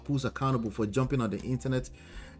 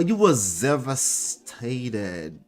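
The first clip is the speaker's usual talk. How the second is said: put-on Bronx accent; 3 semitones lower, much slower than usual. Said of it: "What is that, like a Bronx accent?".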